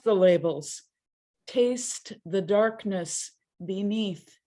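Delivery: measured poetry recital with pauses between lines; deliberate recital, each line falling at its end; poem reading. Acted. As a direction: read it as solemn verse, each line set apart. Reads a poem aloud.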